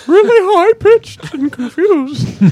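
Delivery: very high, slow, confused voice; squeaky, bewildered, drawn-out falsetto; high-pitched. Shown as a demonstration. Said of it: "I read her as Julia Child".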